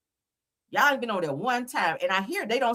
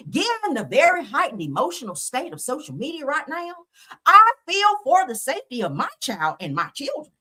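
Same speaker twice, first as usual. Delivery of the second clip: prim, higher-pitched mock Becky, lightly done; 5 semitones higher than usual. Mocking the judge's statement in a mock Becky voice. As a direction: read it like a smug prissy lady. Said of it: "I gotta say it in my Becky voice".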